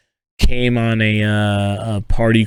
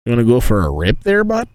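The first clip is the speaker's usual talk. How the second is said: mock Canadian accent. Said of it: "Sounding mad Canadian there".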